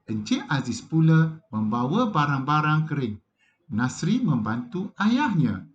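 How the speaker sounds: lively textbook reading with voiced dialogue; expressive reading aloud. Shown as a demonstration. Teacher reading a passage to pupils, expressive and lively. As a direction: read it like a model reading for the class.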